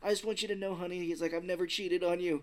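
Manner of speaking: high, pleading last words; mock desperate confession. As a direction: imitate a frightened husband confessing to his wife. Captive's panicked last confession.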